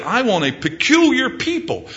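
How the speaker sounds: high, lifted, stretched out at the end; God longing for his bride, slowing on perfect bride. Acted. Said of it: "And God says that".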